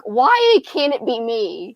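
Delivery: slow, envious whine; wistful whine. Retold or imitated. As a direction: drag it out, wishing. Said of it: "I'm like".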